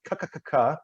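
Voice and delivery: "ka, ka, ka, ka" clicked at the back; consonant drill. Shown as a demonstration. Coach drilling back consonants, crisp. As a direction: crack each "ka". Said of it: "Ka, ka, ka, ka is in the back of the mouth".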